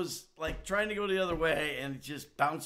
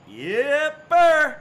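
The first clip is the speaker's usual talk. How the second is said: loud, higher exasperated groan of words; exasperated outburst; 11 semitones higher, 12 dB louder than usual. Real, not acted. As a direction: let it burst out fed up.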